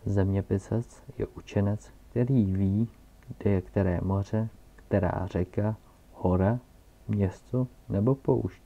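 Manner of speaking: put-on loud pompous old scholar lecturing; old geographer. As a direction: explain it like a proud learned man. Geographer explaining loudly. (zeměpisec hlasitě a nadutě poučuje malého prince)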